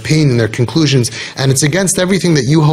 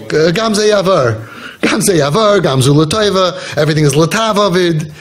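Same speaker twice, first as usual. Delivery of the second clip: mock platitudes; 3 semitones higher than usual. Mimicking someone consoling another in pain, mock platitudes. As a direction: parrot pat consolations, stretching them out. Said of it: "start telling them all of these catchphrases".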